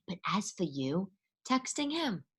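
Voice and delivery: unvoiced conspiratorial whisper; a whispered aside to the listener. Real, not acted. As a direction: lean in and whisper.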